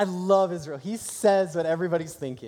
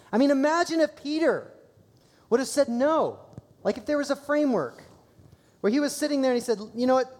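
fervent preaching; 8 semitones higher, 3 dB louder than usual. Real, not acted. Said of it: "passionate preaching".

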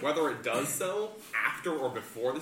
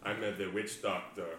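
lightly put-on Jamaican accent that drifts toward Italian; terrible Jamaican accent; 3 semitones lower than usual. Player introduces his witch doctor in a bad Jamaican accent. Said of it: "my terrible Jamaican accent".

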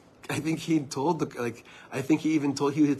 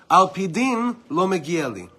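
Moshe's plea; 5 semitones higher, 7 dB louder than usual. Retold or imitated. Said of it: "this is Moshe Rabbeinu".

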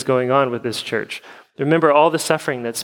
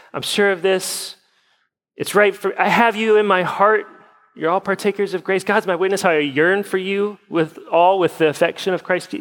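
lightly mocking recital in a higher pitch; super-spiritual talker; 5 semitones higher than usual. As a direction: reel off pious phrases, pitched up, as oddly earnest talk. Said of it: "Who talks like that?".

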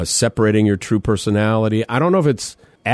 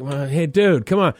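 lightly put-on British accent, rising higher; mock British accent; 5 semitones higher than usual. Guy asking his roommate to take out trash, mock British accent. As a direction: slip into a half-hearted British accent. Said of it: "speaking in over-the-top British accents".

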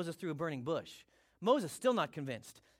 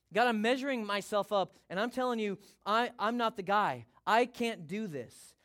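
insecure protest; 3 semitones higher, 4 dB louder than usual. Acted. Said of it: "Do you see the insecurity?".

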